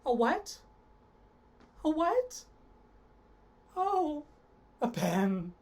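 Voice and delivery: hammed-up grief over a pen; a wailing, pitiful realization; mock sadness. Shown as a demonstration. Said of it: "also with some sadness".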